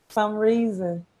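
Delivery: drawled Southern Mississippi vowels; Mississippi accent. Real, not acted. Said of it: "this is my Mississippi accent".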